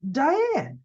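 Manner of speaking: high, drawn-out call; calling Diane. Retold or imitated. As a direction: call her back from a daydream. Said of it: "you hear this".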